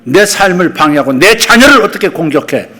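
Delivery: rising from firm to a loud high shout; firm rebuke building. Shown as a demonstration. Preacher rebuking the attacker of his children, building to a loud shout. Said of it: "단호하게 일어서서".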